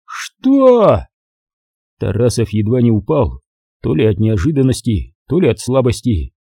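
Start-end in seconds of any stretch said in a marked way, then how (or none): 0.1-1.1 high startled cry; shocked by the news, voice jumps up; high, astonished what; stunned what. Acted.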